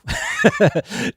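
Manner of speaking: light, soft chuckle; short chuckle. Real, not acted. Host chuckles after the perfect bass drum remark. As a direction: chuckle briefly to yourself. Amused by his own remark.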